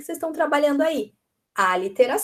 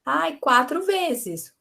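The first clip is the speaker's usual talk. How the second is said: higher, slow answer, lightly voiced pupil; child answering teacher; 4 semitones higher, much slower than usual. Child tells teacher how many pieces, lightly voiced slow answer. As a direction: lightly act a pupil arriving at the count.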